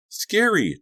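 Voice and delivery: put-on very high, loud child's shout; little boy calling back. A narrator's reading. Donnie answers from the mirror, high child shout. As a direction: shout back gleefully as a kid. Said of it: "Donnie called back".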